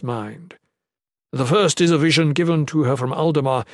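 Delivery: lightly voiced witness making a formal case; measured, insistent testimony; earnest advocate. Ethris presents his evidence.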